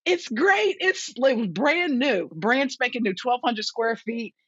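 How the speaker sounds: high-pitched mock wail, words drawn out; retold tearful reply. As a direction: imitate a weepy phone call home. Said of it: "I'm crying".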